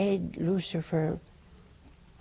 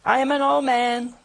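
put-on old Zechariah excuse; 4 semitones higher, 3 dB louder than usual. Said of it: "So he says".

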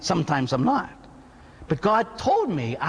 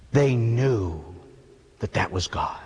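hushed awe; 7 semitones lower, slower than usual. Real, not acted. Priest describing the nuns bowing before God, hushed whisper. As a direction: drop to a whisper as if at the altar. Nuns falling prostrate at consecration.

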